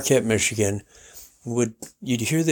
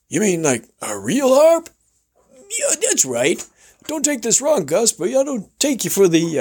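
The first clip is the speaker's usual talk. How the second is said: radio host; 10 semitones higher than usual. Retold or imitated. Host imitated welcoming guest, high showman voice. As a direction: roll it out like a ranch host. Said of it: "He says".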